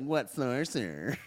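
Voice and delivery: slow, droopy cartoon dog voice; lightly voiced sleepy Droopy drawl. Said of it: "I love that voice. I love Droopy".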